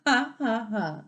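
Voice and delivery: bright mock laughter, loud; hammed-up story laugh; playful laugh. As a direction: act out the babies laughing. Acts babies laughing.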